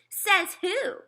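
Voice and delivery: high, loud sassy challenge; defiant retort. Acted. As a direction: throw it back at him. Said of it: "she asked".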